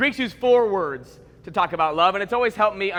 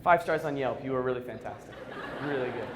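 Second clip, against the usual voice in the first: grateful newborn; 9 semitones lower, 9 dB quieter than usual. Retold or imitated. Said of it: "you'd look up at your mom and say".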